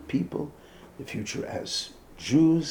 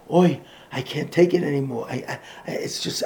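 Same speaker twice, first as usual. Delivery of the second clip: mock weary groaning complaint that trails off; krechzing; 3 dB louder than usual. Parents complaining at home, mild mock krechzing. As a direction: lightly sigh out the burden. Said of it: "They didn't hear krechzing".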